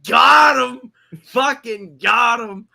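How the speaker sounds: shouting got him, gleeful. Retold or imitated. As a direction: crow it like you just won. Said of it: "And we're like".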